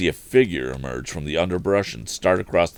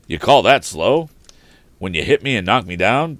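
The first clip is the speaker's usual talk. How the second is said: loud, scornful challenge; demanding tramp; 3 semitones higher, 6 dB louder than usual. Acted. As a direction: throw his words back at him. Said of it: "demanded the tramp".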